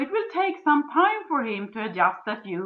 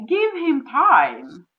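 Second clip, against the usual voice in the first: very slow, stretched advice; slow emphasis; 3 semitones higher, 3 dB louder, much slower than usual. Real, not acted. Coach advising the listener, slow and deliberate. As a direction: stretch every word. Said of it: "repeated advice".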